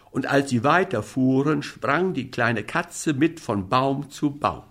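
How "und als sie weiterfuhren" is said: ordinary delivery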